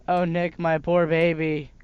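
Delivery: hammed-up fake sobbing, slow, loud; overdone fake weeping; fake crying. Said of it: "Quit your fake crying".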